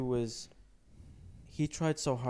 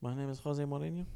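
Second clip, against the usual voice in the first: Mourinho impression; 4 dB quieter than usual. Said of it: "really bad impression".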